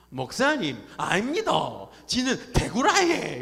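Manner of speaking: loud, high, hammed-up anger; imitating an offended churchgoer, voice jumping up; indignant Daegu protest. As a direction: protest crossly in Daegu dialect, drawing out the end. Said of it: "이분이 화를 내시는 거예요".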